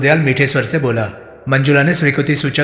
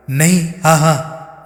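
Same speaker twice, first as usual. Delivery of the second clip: flustered stumbling answer, first words higher; 3 semitones higher, much slower than usual. Acted. Manjula flustered under the inspector's question, stumbling over yes and no. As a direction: caught out and scrambling for an answer. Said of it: "हड़बड़ाकर बोली".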